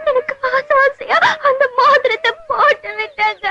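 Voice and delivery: wailing over the lost ring; fake crying. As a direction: sob out the story of the ring. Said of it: "அழுகாதீங்க". (அழுதுகொண்டே புலம்பல்)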